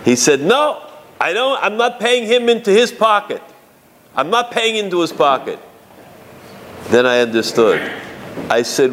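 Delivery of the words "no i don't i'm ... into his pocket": indignant refusal. Retold or imitated. Father-in-law refuses to pay.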